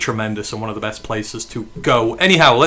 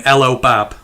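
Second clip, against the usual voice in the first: Brummie greeting; 3 dB louder than usual. Shown as a demonstration. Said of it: "That is where we're at here".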